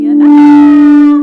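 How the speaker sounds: high, loud, playful fright; mock spooked scream. Real, not acted. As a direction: squeal like something spooked you. Spooked by the ghostly sound.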